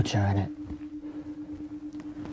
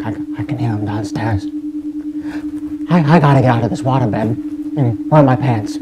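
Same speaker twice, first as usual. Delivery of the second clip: panicked; faster than usual. Acted. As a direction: rush it in a frantic panic. Lover's husband arriving, must flee.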